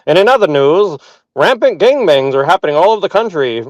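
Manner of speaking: lightly hammed-up announcer voice; Orson Welles announcer. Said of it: "good announcer voice, like Orson Welles".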